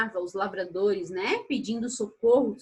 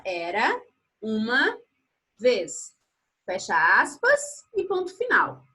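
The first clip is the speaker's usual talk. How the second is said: slow dictation, word by word; dictating; 3 dB louder than usual. Shown as a demonstration. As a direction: pause after each word for writing. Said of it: "Abre aspas, letra maiúscula".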